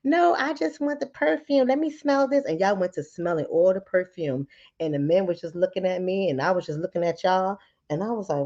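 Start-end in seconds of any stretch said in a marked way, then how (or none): 0.0-2.4 high mock giggle; mock a silly titter; giggling ladies. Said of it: "y'all started laughing".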